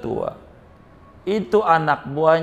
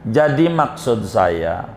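solemn boss addressing followers; 3 semitones lower than usual. Acted. Boss to his henchmen, solemn farewell address. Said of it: "Kata bosnya begini".

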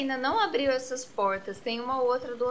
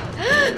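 sharp high gasp of fright; startled gasp; 8 dB louder than usual. Real, not acted. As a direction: gasp in sudden shock. Startled by attacking dog. (suspiro de susto)

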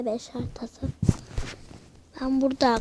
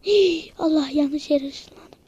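surprised; 4 dB louder, slower than usual. Real, not acted. Teleported to wrong place.

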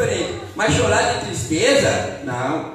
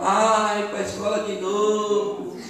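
soft, sighing complaint; mock fed-up whine; grumpy reluctance; 5 dB quieter than usual. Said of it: "aquela pessoa mal-humorada".

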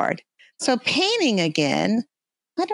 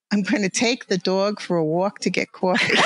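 hammed-up Long Island accent; thick New York accent. Shown as a demonstration. Demonstrating the accent on request, thick Long Island New York accent. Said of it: "really pour it on thickly".

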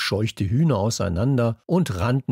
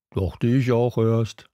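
slow whispered aside; slower than usual. A narrator's reading. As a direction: breathe it out as a secret, slowly. Kalu's dry aside.

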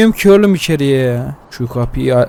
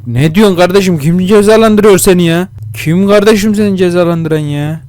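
loud, higher-pitched baffled outburst; exasperated yelling; 6 semitones higher, 5 dB louder than usual. Real, not acted. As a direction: shout at the screen in disbelief. Confused at game character's plea.

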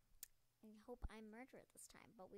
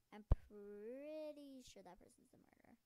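excited; 14 dB louder than usual. Real, not acted. Spotting the murderer.

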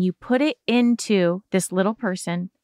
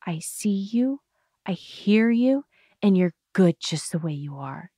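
a hint of a tender parent; soothing parent. Shown as a demonstration. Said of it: "Be with them the way".

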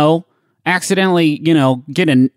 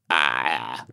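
quiet death cry; 9 dB quieter than usual. Shown as a demonstration. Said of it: "interrupt whatever you're saying with".

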